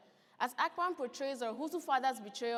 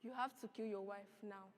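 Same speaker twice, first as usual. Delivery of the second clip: cold threat; 3 semitones lower, 5 dB quieter than usual. Acted. Man threatens father coldly.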